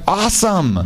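high, laughing mock delight. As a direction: greet a death threat like good news, laughing. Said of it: "And I'm like".

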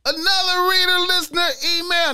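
high, loud announcer call; segment announcement. Acted. Podcast host kicking off the listener email segment in a high, loud announcer voice.

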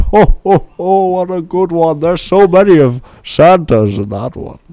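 Santa chuckle and chatter; loud jolly Santa. Acted. Santa laugh and talk.

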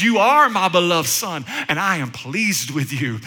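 voice of God. Acted. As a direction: bless him gently from above. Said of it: "God says".

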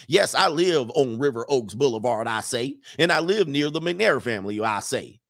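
lightly voiced Southern cartoon rooster; a hint of rooster bluster, dropping each tag; Foghorn Leghorn. Attorney admits living near the family, as a light Foghorn Leghorn. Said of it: "read this in my Foghorn Leghorn accident".

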